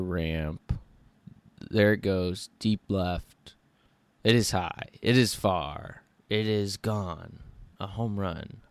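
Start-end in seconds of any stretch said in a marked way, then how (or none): 1.7-8.6 lightly voiced radio play-by-play; home run call. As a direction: call the homer like a broadcaster. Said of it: "what would my home run call be?".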